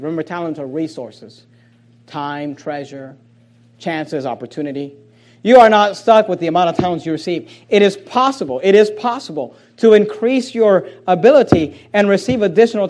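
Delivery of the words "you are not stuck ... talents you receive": dictation. Shown as a demonstration. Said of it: "Please write it down".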